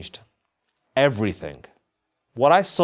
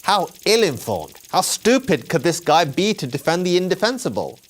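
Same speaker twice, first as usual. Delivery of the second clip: higher-pitched indignant disbelief; retold scornful defiance; 4 semitones higher than usual. Young man reacting to the book, scornful. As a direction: scoff at the author in mock outrage. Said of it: "read the pages almost as an act of defiance".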